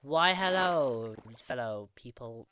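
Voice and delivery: slow, drawn-out posh-style welcome; grand greeting. Pretend. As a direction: greet them slowly like a grand host. Theatrical vlog greeting.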